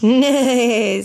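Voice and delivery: zebra neigh. Pretend. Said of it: "says the zebra".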